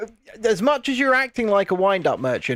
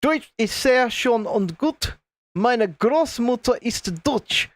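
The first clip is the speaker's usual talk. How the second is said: put-on German; 3 semitones higher, slower than usual. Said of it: "her grandmother is German".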